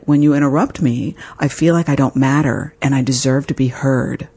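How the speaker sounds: calm assertive tone. Retold or imitated. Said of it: "Just like that in that tone".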